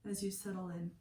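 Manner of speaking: calm, unhurried meditation guide with long pauses; guided meditation. Acted. Meditation teacher settling listeners lying down for yoga nidra, calm guided meditation. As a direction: ease them into stillness, pausing between phrases.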